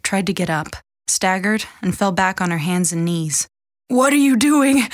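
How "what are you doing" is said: higher, louder croaked demand; hoarse croak. A narrator's reading. Wounded mother on the floor questions her daughter, croaking hoarsely. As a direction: croak it out hoarsely, pitch pushed up. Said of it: "she croaked hoarsely".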